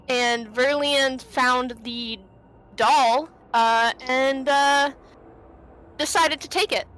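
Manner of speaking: talking through the hiccups; words broken by hiccups. Real, not acted. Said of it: "I have the hiccups".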